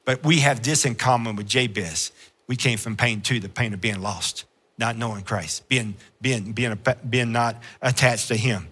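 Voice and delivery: soft confiding sermon voice; hushed preaching. Acted. Preacher drops to a soft, intimate tone.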